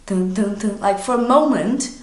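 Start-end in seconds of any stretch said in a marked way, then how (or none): 0.1-0.8 voiced "dun, dun, dun" suspense sting; dramatic sting. Shown as a demonstration. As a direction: punctuate the shock with a mock soundtrack sting. Dramatic sting after the shock question.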